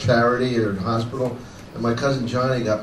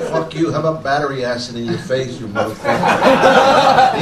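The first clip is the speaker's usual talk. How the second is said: hateful online threat; 5 dB louder than usual. Retold or imitated. Reading out hate messages from Philly fans, a mock furious yell. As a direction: ham up an angry troll's threat. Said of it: "I got all kinds of fucking hate shit".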